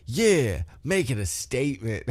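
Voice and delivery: Kadeem Hardison impression. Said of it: "Like Kadeem Hardison from White Men Can't Jump".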